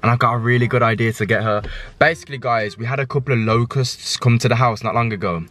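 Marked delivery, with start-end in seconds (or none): 2.0-5.4 slight lisp from aligners. Real, not acted. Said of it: "I got a lisp, I'm sorry, Invisalign".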